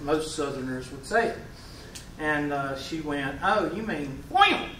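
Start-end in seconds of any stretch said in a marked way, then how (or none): 3.4-4.7 slow mock correction, OIL stretched to "OY-ul"; imitated student's pronunciation. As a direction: mimic her over-pronounced "oy-ul" on OIL. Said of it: "that's the way she said oil".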